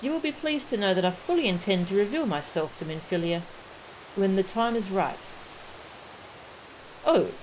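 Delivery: lightly acted, formal fantasy dialogue; in-character dialogue reading. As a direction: read the game characters' lines with measured, theatrical poise. Voices game dialogue aloud.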